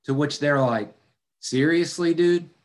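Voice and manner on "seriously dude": higher, incredulous retort; exasperated disbelief. Acted. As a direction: scoff at him like a fed-up friend. Disciples retort to Jesus.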